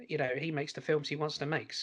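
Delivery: a slip into a light Brooklyn accent. Real, not acted. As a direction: say it with a touch of Brooklyn accent, extra S sounds. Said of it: "I don't know why I sounded like a Brooklyn".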